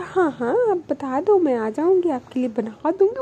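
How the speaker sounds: mildly acted affection; very loving. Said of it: "अनु बड़े प्यार से बोलती है".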